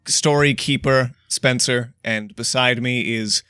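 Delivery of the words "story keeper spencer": put-on old-timey storyteller intro; stagey fake archaic declaiming. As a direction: declaim like a medieval bard. Mock-archaic podcast intro.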